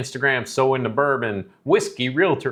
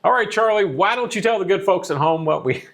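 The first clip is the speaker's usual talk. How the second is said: radio voice; 7 semitones higher than usual. Acted. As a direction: announce it like a radio host. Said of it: "I got my radio voice on".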